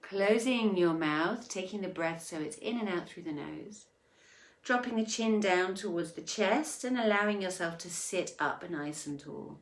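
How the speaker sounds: unhurried meditation instructions with long pauses; guided meditation. Acted. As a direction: guide them gently through each breath. Leads breathing in meditation.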